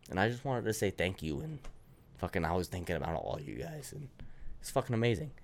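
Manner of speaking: breathless, no pause to breathe; out of breath, pushing through. Real, not acted. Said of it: "I just haven't breathed".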